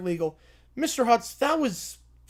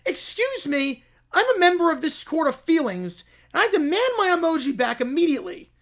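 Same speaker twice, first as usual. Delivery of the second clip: indignant plaintiff; 3 semitones higher than usual. Acted. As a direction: demand it back like a wronged diva. Plaintiff demanding emoji in court.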